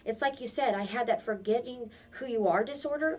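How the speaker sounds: insist, voice rising with conviction; boy defying the old woman, fired up; determined. Acted. Peter insists he must go.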